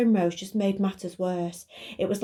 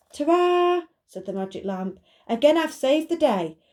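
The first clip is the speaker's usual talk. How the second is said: triumphant magic lamp voice; 7 semitones higher, 4 dB louder than usual. Acted.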